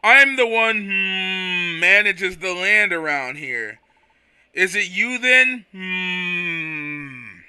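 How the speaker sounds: slow, drawn-out voice with hums; lazy, unhurried, humming between words; a light take on a slow sleepy Quagsire. Acted. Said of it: "a really slow voice".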